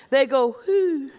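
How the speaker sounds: owl hoo. Retold or imitated. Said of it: "And he says".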